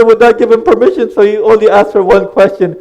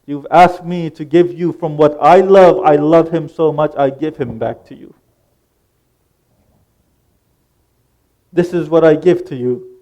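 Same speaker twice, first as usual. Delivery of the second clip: low, softened words of offering; solemn devotional address; 6 semitones lower, 5 dB quieter than usual. Acted. Offering up a beloved one to God, solemn and low.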